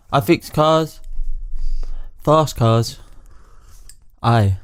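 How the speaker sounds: spaced-out put-on Scottish, aye tacked on; Scottish accent. Reading Dave's message, adding aye for the Scottish accent. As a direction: read it out in amateur Scottish. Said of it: "I just put it on the end for the accent".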